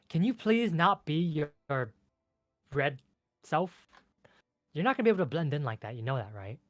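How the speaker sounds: high, loud, pleading fairy; exasperated ice fairy. Acted. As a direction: scold a companion in a high fairy voice.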